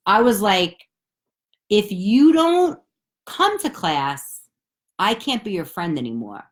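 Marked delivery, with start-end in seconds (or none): 1.7-6.4 bossy threat. Retold or imitated. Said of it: "So I was a bully about it".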